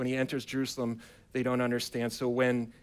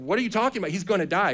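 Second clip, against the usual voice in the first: high, exasperated protest; can't believe what they're hearing; incredulous disciples; 5 semitones higher, 4 dB louder, faster than usual. Acted. Disciples protesting Jesus' delay while Lazarus dies, incredulous. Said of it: "the disciples are like".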